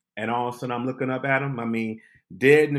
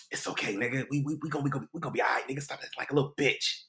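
quiet calming; 2 semitones higher, 7 dB quieter, much faster than usual. Retold or imitated. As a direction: hush him and tell him to relax. DL calming him down.

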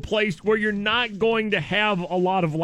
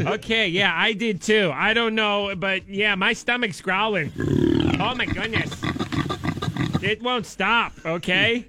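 office lady voice. Pretend. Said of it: "office lady voice".

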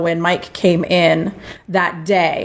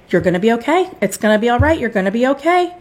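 reassuring; 5 semitones higher, faster than usual. Retold or imitated. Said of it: "the tech just kept saying".

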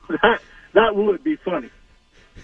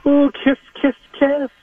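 mock fan girl kisses; 5 semitones higher than usual. Caller mimics fan girls blowing kisses, high and giddy.

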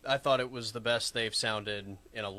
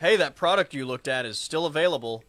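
louder, higher sales-email come-on; mock pushy marketer; 4 semitones higher, 7 dB louder than usual. Podcaster parodying thirsty emails to co-host, mock-eager pitch. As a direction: pipe up like an eager promo email.

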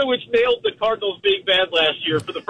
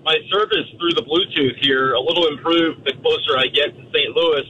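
rough, gravelly voice on the phone; 2 semitones lower than usual. Real, not acted. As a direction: talk through a gravelly throat. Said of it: "in the gravelly voice form once again".

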